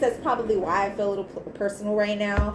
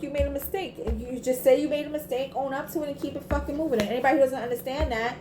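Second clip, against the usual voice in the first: higher-pitched indignant rant; with attitude; 5 semitones higher, faster than usual. Real, not acted. Reader defending Taurus over a mistake, with attitude. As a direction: sound fed up on their behalf. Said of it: "now I got an attitude".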